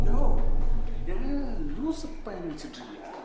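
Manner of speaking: frantic high yelling at the caller; panicked shout. Acted. Scared youth yelling at the man on the phone, frantic shout. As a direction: scream it out, scared and furious.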